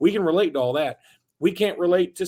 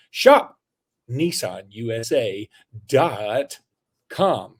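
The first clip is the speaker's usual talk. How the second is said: upbeat sponsor read; 3 semitones lower than usual. Acted. Host reading Nissan ad to listeners, ad-read voice. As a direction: sell it like a radio spot.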